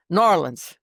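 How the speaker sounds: New Orleans slurred as one word, "Nawlins"; marbles in mouth. Shown as a demonstration. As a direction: say New Orleans mushed together, local style. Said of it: "I know how to say it, like with marbles in your mouth".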